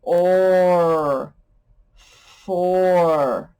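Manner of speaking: "or" drawn out, then "for"; sounding out or. Shown as a demonstration. Teacher sounding out for: slow build. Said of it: "downward is".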